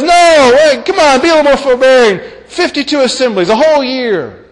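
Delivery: high-pitched, animated protest; mock pleading objection. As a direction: plead for leniency as a rival debater. Acts out second objector, pleading leniency.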